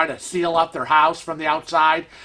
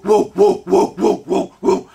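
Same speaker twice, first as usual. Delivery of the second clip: mock ninja noises; 4 dB louder than usual. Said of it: "I'm still there doing woo".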